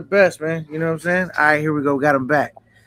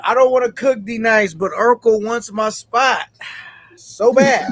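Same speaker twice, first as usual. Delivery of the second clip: reading a chat comment aloud; 3 semitones higher than usual. Retold or imitated. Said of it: "he says".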